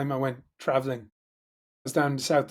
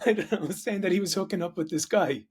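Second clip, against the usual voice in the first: laughing; 7 semitones higher than usual. Real, not acted. Telling the friend about the offended Aussie, laughing. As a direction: giggle as you tell it.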